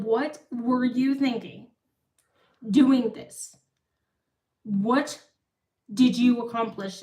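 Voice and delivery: retold scolding in a tentative British accent; attempted British accent. Retelling her sister's questions on the plane, British accent. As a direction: try a British accent, in measured, separated phrases. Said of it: "gonna try to do a British accent".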